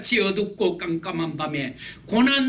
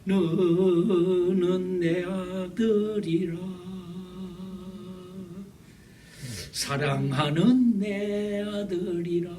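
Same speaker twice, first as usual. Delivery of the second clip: tender divine voice; much slower than usual. Acted. God speaking to his son.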